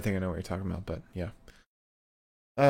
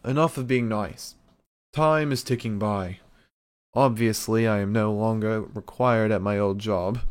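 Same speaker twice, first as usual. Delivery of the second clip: firmer, louder Regal impression; William Regal voice; 3 dB louder than usual. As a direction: Regal turning stern and proud. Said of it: "let me try and do a Regal voice".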